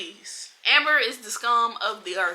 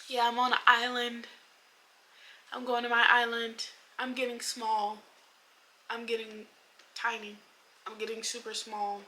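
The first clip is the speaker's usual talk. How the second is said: soft, hushed mock of a melodramatic line; imitating a corny confession, hushed; mocking quiet voice; 2 semitones higher, 7 dB quieter than usual. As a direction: murmur it like someone overly precious. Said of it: "picture anybody actually saying".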